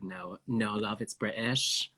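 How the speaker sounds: slow British let-down, quietly correcting; retold British man. British man correcting her guess, in a British accent. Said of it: "he is like".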